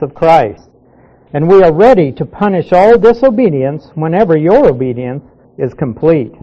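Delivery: measured, emphatic Bible reading; deliberate reading with weighted key words; scripture reading. Acted. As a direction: read the verses out firmly to a class. Reads the passage aloud.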